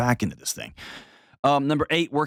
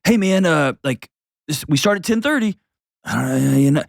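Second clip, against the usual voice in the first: vague casual talk; 3 semitones higher than usual. Retold or imitated. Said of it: "We just say things like".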